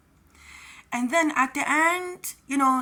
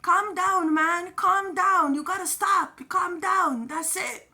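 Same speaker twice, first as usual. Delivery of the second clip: urging calm; 5 semitones higher than usual. Retold or imitated. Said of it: "he was telling Joseph".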